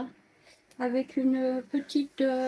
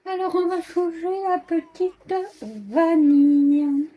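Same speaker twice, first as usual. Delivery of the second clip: loud; 5 semitones higher, 8 dB louder, slower than usual. Real, not acted. Greeting viewers loudly.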